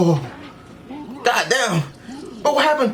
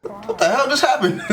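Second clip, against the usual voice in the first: shocked laughing shout; 9 semitones higher than usual. Real, not acted. Shocked at the episode.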